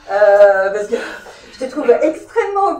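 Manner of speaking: says it through a real laugh; teasing with a laugh. Real, not acted. Teasing a guest about her optimism. (en riant, taquine)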